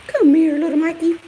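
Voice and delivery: high, loud call to the dog; calling the puppy. Real, not acted. Vlogger calls her puppy Mikey across the yard, high and loud.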